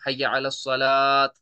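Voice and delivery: सलात chanted long with a final t; wrong t ending. Shown as a demonstration. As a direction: draw out सलात slowly and end it on an audible t. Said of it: "सलात नहीं पढ़ना है".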